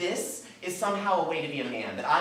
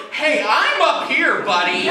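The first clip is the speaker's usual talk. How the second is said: mock scolding; 5 semitones higher, 12 dB louder, slower than usual. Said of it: "and I'm like".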